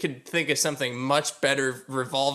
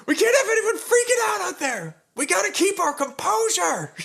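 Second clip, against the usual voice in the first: high quote cracking up with laughter; laughing through quote; 3 dB louder than usual. Retold or imitated. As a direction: try to say it but keep laughing. Retelling Will Ferrell's locker-room line.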